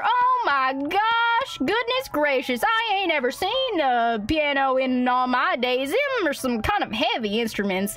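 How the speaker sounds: a drawled frontier-folk gasp of wonder; a country hick amazed by city things; the cowboy gawks at the piano, drawling; folksy cowboy. Acted.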